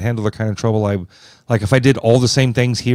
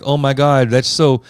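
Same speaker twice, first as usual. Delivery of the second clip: a touch louder, hammed-up trendy voice; mock teen slang; 5 semitones higher, 4 dB louder than usual. Dad teasing his daughter, hammed-up fake teen slang. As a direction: play the cringe dad faking teen talk. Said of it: "I'll butcher her slang words on purpose".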